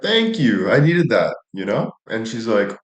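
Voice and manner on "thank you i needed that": mock grateful. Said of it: "And I'm like".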